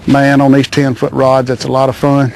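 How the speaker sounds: breathless after the fight; out of breath. Real, not acted. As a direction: talk while catching breath. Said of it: "Oh, I'm out of breath".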